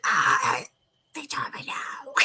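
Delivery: imitating a nephew who lost his voice, airy and slow; voiceless whisper. Aunt imitating nephew's lost voice, a slow breathy whisper. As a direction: rasp it out with no voice left. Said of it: "And he's talking like".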